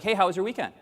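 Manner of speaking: mock cheery greeting. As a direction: toss off a quick friendly hello. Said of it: "the U S Americans is like".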